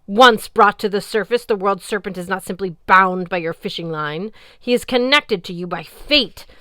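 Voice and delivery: loud, menacing goddess warning; snarling. Acted. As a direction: threaten with cold menace. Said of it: "Ran snarled".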